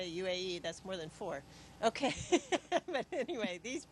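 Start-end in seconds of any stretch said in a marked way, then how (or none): 1.8-3.9 sheepish laugh, voice lifting; laughing at herself. Real, not acted. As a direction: laugh off a small slip. Laughs at own counting slip.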